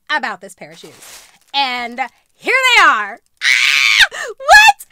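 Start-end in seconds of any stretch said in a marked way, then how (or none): 3.4-4.1 louder, lower burst of a yell; excited shriek. Real, not acted. Opening the favorite pair, excited shriek. 4.4-4.9 much higher, louder disbelief; shocked squeal. Real, not acted. Seeing a screw-shaped heel, shocked squeal.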